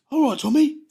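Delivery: high, sing-song mock-friendly greeting; cocky greeting. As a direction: greet him with a knowing smirk. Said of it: "he goes".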